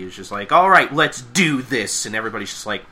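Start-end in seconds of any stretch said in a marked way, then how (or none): 0.5-2.0 slow, drawn-out rallying cry; Pinkie Pie. Retold or imitated. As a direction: stretch it out in a mock zombie groove. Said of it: "Pinkie Pie, walking like a zombie".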